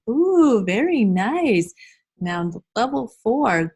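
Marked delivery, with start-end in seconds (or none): 0.1-1.7 higher, louder "ooh" easing into drawn-out praise; delighted praise. Pretend. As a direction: gush approvingly as to small children. Teacher praising imagined children.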